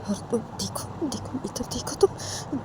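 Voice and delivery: slow, breath-only coaxing; soothing. Acted. Uma getting weeping Sanju to look at her, soothing whisper. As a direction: whisper to draw their eyes to you. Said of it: "Sanju को शांत करवाने लगती है".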